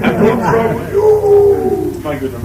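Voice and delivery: exaggerated posh royal lady, drawn out. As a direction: ham up a posh Kelvinside lady. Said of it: "You think they come from Kelvinside?".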